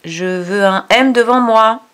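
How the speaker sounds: a lightly voiced demanding letter B; voicing the letter B. Letter B demanding an M in front of it, lightly voiced. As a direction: play the letter B asking for its M. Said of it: "le B qui est ici dit".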